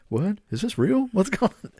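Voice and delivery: high, rising frightened questions; imitating a relative panicking at a fake alert; mock panic. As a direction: play a confused, scared grandma. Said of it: "And they're like".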